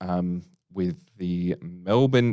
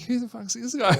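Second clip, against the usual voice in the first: much higher, laughing through it; laughing disbelief. Retold or imitated. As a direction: laugh it out in mock bewilderment. Retelling bewildered reaction, laughing.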